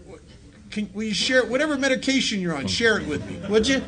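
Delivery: teasing mock request to a calm coworker; mock incredulous. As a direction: ask him for his meds in playful disbelief. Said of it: "I'm looking at him like".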